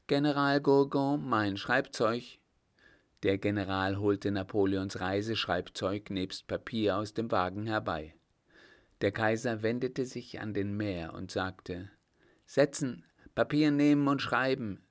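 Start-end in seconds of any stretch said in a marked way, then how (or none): 0.1-2.4 raised, louder call to a general; imperious summons, pitched up; commanding emperor. Acted. Emperor giving his general an order. 12.4-14.8 higher, louder emperor's orders; brisk dictatorial instruction; imperious command. Acted. Emperor orders the mayor to write.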